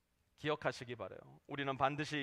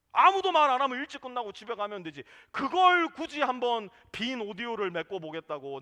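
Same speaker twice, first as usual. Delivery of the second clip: quick, louder, dismissive comeback; brisk retort; 5 semitones higher, 6 dB louder than usual. Real, not acted. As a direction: brush the excuse aside fast. Preacher retorts to an excuse.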